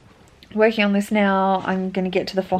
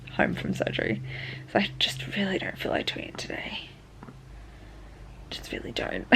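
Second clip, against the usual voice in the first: whispering; 10 dB quieter than usual. Real, not acted. Reluctant whispered admission.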